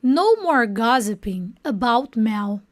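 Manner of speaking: slow, careful English model sentence; slow model line. Shown as a demonstration. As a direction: spell it out slowly for learners. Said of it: "E ele fala assim". (frase modelo lenta e clara)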